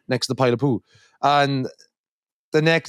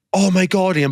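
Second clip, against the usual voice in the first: higher-pitched imitation of a shocked sister; mock alarm; 6 semitones higher, 3 dB louder than usual. Older sister watching her brother lather on cream, mock alarm. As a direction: act out putting the frights on someone.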